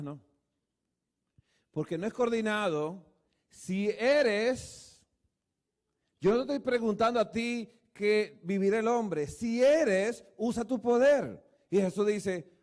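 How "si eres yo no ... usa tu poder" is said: pressing, higher challenge; a loud, mocking dare from Satan; taunting challenge. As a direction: goad him like the tempter. Preacher voices Satan's challenge.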